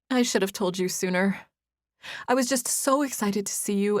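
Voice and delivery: a guilty woman pouring out apologies; young woman voice. Acted. Narrator voices Izzy, confessing.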